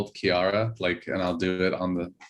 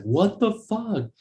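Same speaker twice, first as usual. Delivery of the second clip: retold exasperation; 11 semitones higher, slower than usual. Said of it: "where I was like".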